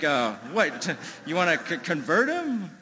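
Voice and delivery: mock disbelief, rising to a high, loud question; incredulous dad. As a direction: stammer it out as a baffled father, pitch climbing. Dad balks at rabbi's ritual.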